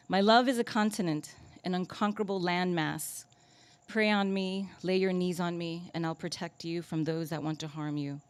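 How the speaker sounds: hushed, measured spoken-word recital; poetry reading. Acted. Reads new poem aloud.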